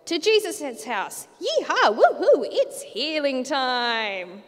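high, loud yeehaw whoops, slowing down at the end; whooping cheer. Acted. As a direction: cheer like a cowboy charging off. Friends cheer carrying the bed.

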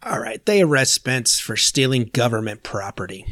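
unvoiced whispered recap. Real, not acted. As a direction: whisper it under your breath. Recap line.

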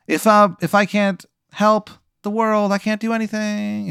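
falling man's wail, acted at normal volume; mock yell. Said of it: "and you hear him yell".

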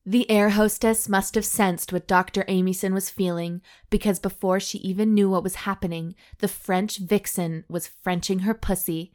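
measured audiobook-style reading; story narration. A narrator's reading. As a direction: read the racy tale out deliberately. Reads the erotic story aloud.

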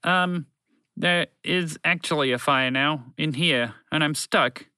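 sheepish broadcast voice. Acted. Broadcast voice stuck in a fire, pleading sheepishly. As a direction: own up awkwardly to being in trouble.

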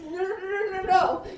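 high urgent hushed no's; whisper yelling. Retold or imitated. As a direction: stop her, half laughing. Urgently stopping someone, laughing.

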